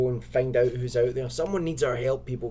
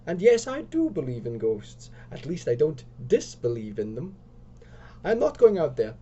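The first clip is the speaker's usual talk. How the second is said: acted upset, pitched up; 3 semitones higher, 4 dB louder than usual. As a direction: protest in a higher, upset voice. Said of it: "Lisa's really upset now".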